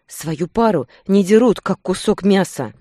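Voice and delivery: full-voiced furious cry; breaking into a shout. A narrator's reading. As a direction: scream the accusation at him. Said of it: "Перешла на крик".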